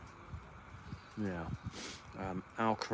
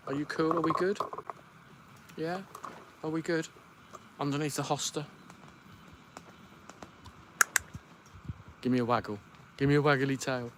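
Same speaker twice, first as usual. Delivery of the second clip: pet talk; 5 semitones higher, faster than usual. Real, not acted. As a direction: check on the dog gently. Gentle questions to dog.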